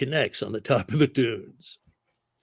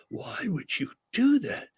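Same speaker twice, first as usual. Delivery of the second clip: higher, slow, incredulous imitation of Sam; mock exasperated outburst; 8 semitones higher, 4 dB quieter than usual. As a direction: replay Sam's panic, pitched up and drawn out. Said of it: "Sam goes ballistic".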